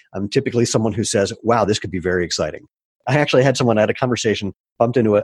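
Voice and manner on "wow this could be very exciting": normal talking voice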